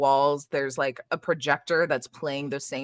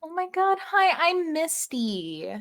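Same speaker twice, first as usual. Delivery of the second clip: bubbly receptionist; 12 semitones higher, slower than usual. Acted. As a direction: gush like an overeager greeter rushing to lock up. Misty introducing herself.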